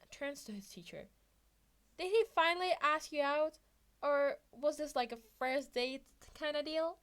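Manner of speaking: put-on high, eager teen voice; curious young Izuku. A narrator's reading. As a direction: lively kid asking his teacher.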